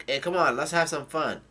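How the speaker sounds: mild excited yell, retelling a character; retold yell. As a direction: call it out as a half yell. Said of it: "somebody yells out".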